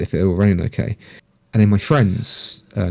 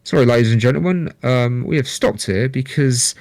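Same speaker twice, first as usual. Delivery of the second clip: train driver announcement; 4 semitones higher than usual. Retold or imitated. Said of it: "the driver comes on".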